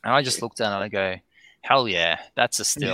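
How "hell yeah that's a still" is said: retold thrill. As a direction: relive the rush of seeing the still, lightly. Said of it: "I was super excited".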